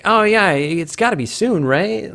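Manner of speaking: mock-eager fan optimism; re-enacted energized optimism. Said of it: "you're just so energized".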